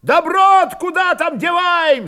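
high shout from the crowd; loud question. A narrator's reading. Someone in the crowd asks about the loot, loudly. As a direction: call out the objection over heads. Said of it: "спросили громко".

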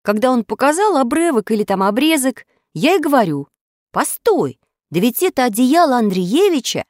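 high-pitched, emphatic pupil voice; schoolboy witness. A narrator's reading. Grachev recounts recognising the blanket to class, emphatic high voice. Reader plays Grachev's account.

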